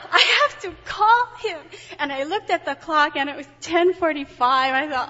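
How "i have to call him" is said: high, loud urgent cry; excited. Retold or imitated. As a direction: blurt it out in a rush.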